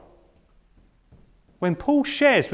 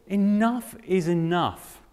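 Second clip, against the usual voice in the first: weary plea; slower than usual. Acted. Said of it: "What might that prayer have sounded like?".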